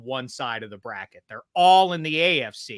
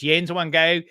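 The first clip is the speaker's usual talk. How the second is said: Pittsburgh accent. Shown as a demonstration. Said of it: "Pittsburghers have yins".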